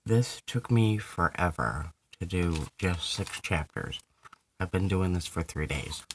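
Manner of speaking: talking around a candy; candy in the mouth; mouth full. Real, not acted. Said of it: "Sorry, I have candy in my mouth".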